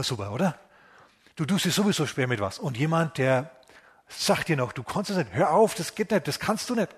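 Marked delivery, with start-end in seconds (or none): 4.7-6.9 discouraging critic. Acted. A critic tells you that you can't.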